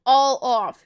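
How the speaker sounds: loud, emphatic counteroffer; forceful demand. A narrator's reading. Soldier haggling over pills with Joel, forceful demand. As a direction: push it out hard, haggling.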